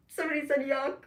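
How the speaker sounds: high, loud indignant reread; mock offended. Real, not acted. Rereading a rude chat comment, mock offended. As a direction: act shocked at the comment.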